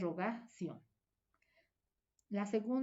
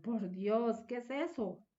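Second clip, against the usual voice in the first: shocked exclamation; 3 semitones higher than usual. Shown as a demonstration. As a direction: recoil from something awful.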